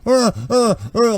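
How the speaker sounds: short high pleading grunts; pleading whimpers. Acted. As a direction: whimper in little high bursts, begging. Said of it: "like, pleading".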